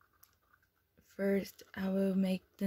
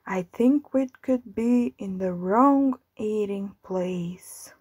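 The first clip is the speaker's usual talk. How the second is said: anxious cow. Acted. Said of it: "with an anxious face".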